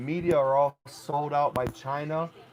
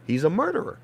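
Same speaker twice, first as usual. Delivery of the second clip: loud, angry accusations; furious rant; 6 dB louder than usual. Real, not acted. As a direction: shout the charges out in anger. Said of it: "I get furious".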